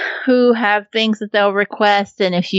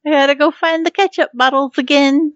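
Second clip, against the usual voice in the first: mock whine through laughter; 8 semitones higher, faster than usual. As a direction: whine it while cracking up. Laughing at her own obsession.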